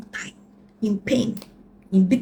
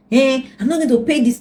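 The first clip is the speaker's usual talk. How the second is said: mock refusal; 6 semitones higher, 5 dB louder than usual. Ex refusing to pay money.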